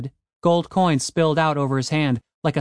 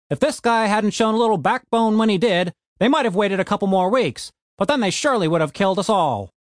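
a lightly voiced gruff dwarf, raised and fast; gruff Frank voice; 7 semitones higher than usual. A narrator's reading. Frank snapping at Tony the Elf, lightly raised gruff voice. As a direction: push back hard at the elf, brisk.

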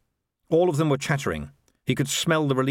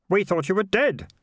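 put-on higher, earnest young boy; boy's voice; 9 semitones higher than usual. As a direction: voice a worried boy.

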